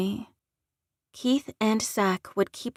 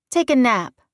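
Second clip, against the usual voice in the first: loud, curt command; ordering; 2 semitones higher, 6 dB louder than usual. A narrator's reading. Alpha woman orders two shifters to sleep, commanding. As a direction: give it as an order. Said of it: "I ordered".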